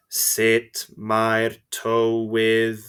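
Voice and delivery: slow, even robotic voice. Shown as a demonstration. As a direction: say it like a robot, slowly. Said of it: "saying it in a robotic voice".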